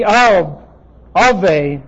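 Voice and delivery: "av", then "ave" with a long ay ending; English pronunciation. Shown as a demonstration. Teacher sounding out a Hebrew word for class, careful pronunciation. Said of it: "pronounced in English would be".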